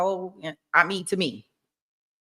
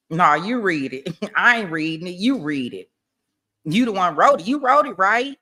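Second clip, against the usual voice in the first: mock prosecutor demand; 4 dB louder than usual. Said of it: "He made her read those messages".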